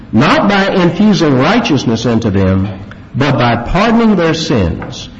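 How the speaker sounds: put-on measured, solemn reading aloud of old creed; formal confession reading. Preacher reading the Westminster Confession to congregation, solemn and measured. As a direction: read the creed with gravity, slowing on key phrases.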